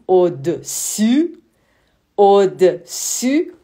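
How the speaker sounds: au-dessus slow and loud, rising at the end; slow teaching au-dessus. Shown as a demonstration. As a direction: drill au-dessus slowly for learners. (au-dessus lent, montée finale)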